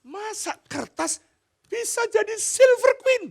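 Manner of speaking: put-on high, loud little-girl wonder; amazed daughter. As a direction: marvel like a small child.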